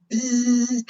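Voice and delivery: short buzz like a bee; buzzing bee sound. Shown as a demonstration. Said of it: "Can you make a sound like a bee?".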